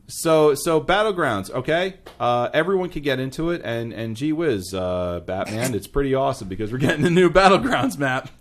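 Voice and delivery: put-on hammy old-timey radio announcer; gee-whiz newsreel announcer voice; 1950s announcer. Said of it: "talked like a nineteen fifties announcer".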